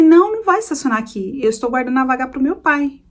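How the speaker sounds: retold firm refusal, rising to the challenge; toughened-up voice. Daughter refusing to give up the parking spot, toughened-up voice. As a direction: stand your ground, toughening up. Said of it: "eu também vou engrossando a voz".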